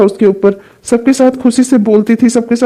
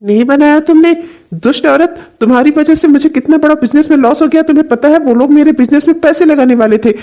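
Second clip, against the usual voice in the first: higher-pitched, indignant outburst; angry scolding; 4 semitones higher than usual. Acted. Husband blames her for his business loss, angry scolding. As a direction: throw the blame at them, outraged.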